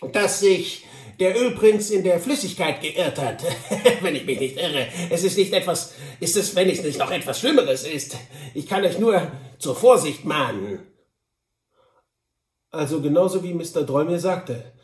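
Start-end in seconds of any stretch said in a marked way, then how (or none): 0.1-10.8 chuckling, slightly raised character voice; Sam Hawkins. Acted. Sam Hawkins warns about the oil find, chuckling. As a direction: warn him with sly little giggles.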